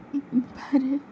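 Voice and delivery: crying as she calls him; mild sob in a high voice; crying plea; tearful. Acted.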